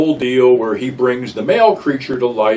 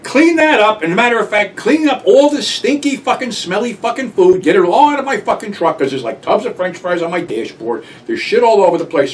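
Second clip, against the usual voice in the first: much higher and louder, berating the stoned friends; angry scolding; 10 semitones higher, 5 dB louder than usual. Retold or imitated. Driver scolding friends over the food mess, angry high yell. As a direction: yell at them to clean up the mess. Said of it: "And I'm like".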